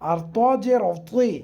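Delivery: ত জের তি drawn out slowly with a heavy তি; demonstrating heavy তি slowly. Shown as a demonstration. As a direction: stretch ত জের তি and thicken তি. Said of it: "সুন্দর করে দেখা যাবে".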